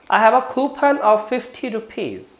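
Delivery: slow, careful model sentence; slow demo sentence. Shown as a demonstration. Teacher reading a slow example sentence to students. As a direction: spell out each word slowly for students. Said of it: "हमें लेना है coupon".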